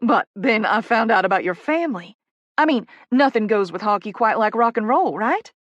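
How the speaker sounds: lightly voiced, chatty Southern enthusiasm; gushing Southern publicist. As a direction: sweet-talk the newcomer, a little Southern. Poppy gushes toward a request.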